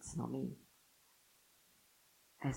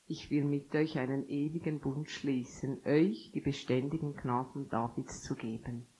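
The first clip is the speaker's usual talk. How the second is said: scripture reading. Acted. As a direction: read Isaiah out to the congregation. Liest Jesaja vor. (langsames, feierliches Vorlesen)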